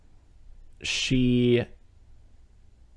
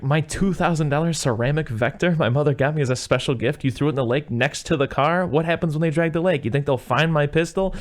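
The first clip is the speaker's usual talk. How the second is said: going off; 4 semitones higher than usual. Retold or imitated. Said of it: "he's kinda, like, going off".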